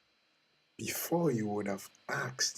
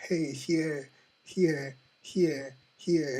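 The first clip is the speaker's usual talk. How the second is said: insistent, higher calls for attention; calling out; 4 semitones higher, 5 dB louder, much slower than usual. Acted. The soul calls to its person to follow, insistent calling out. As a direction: call it repeatedly, each one punched.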